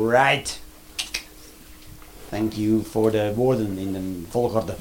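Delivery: put-on a blank, literal kid, slowly; imitating his kid. Comedian voicing his son's blank reply, slow deadpan. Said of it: "En denkt hij".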